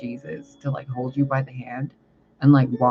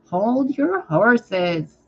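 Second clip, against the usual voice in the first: lightly voiced cartoon narrator, slow and a bit higher; cartoon voiceover; 6 semitones higher, much slower than usual. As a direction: drag it out like a hint of a cartoon announcer. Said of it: "Cartoon Network voiceover".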